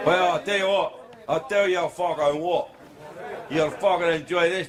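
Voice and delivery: put-on thick Scottish accent. Comic teases a Scot in the crowd, Scottish accent. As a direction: launch into a broad Scottish accent. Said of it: "this is a joke about Scotland".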